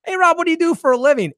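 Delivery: imitating the comedian working the room; comic's crowd-work voice. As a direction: call out to the crowd like a club comic. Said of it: "And he goes".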